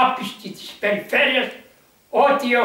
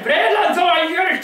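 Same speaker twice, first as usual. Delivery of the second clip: calling out; 5 semitones higher, much faster than usual. Retold or imitated. The healed unbeliever calls after Saint George, calling out. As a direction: call him back across the churchyard.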